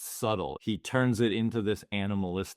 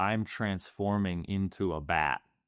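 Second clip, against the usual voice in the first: plain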